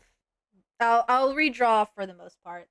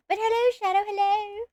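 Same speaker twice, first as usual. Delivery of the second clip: sarcastic hello; 8 semitones higher than usual. Pretend. Sarcastic greeting to Shadow.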